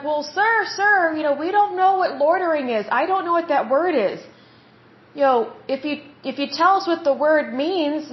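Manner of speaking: mildly imitating a child politely pleading; polite pleading kid.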